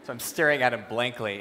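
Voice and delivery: ordinary talk, nothing marked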